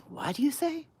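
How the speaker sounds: high, loud mocking retort; neighbor yelling back. Neighbor snapping back at drunk mother, high and loud. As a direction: fire it back across the street.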